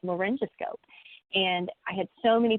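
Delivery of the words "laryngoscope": "laryngoscope" with a soft g, like a j; "laryngoscope" in American pronunciation, soft g. Shown as a demonstration. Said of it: "this is how we say it in America".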